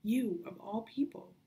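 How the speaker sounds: furious at him for risking his life; angry outburst. Acted. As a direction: confront him in rising anger. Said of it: "Anger flamed in her chest".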